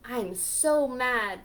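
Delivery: loud, slow mock anger; mad squirrel. Squirrel complaining to Pete, hammed-up mad. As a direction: stomp the words out crossly. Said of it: "said Squirrel".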